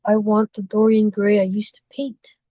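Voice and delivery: whispered sadly, no voice. Acted. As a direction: breathe it out in sorrow. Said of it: "said the artist sadly".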